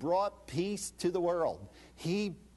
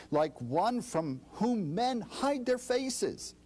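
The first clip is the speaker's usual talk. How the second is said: normal talking voice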